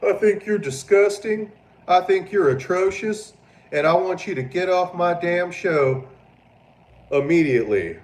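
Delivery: high, loud, haughty dismissal; snooty put-down. Acted. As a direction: look down your nose and throw her off the show. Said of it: "I would have been like".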